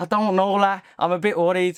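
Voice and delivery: put-on Liverpool Scouse accent. Speaker quotes Jamie Carragher's worried reply to Arne Slot, in a Scouse accent. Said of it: "That was my Scouse accent".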